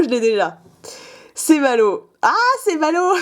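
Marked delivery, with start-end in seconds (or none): 2.2-3.1 high, sing-song mock pity; teasing, on the edge of laughter; playful mock lament. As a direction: repeat it with a gleeful high lilt. Repeats it playfully, then laughs.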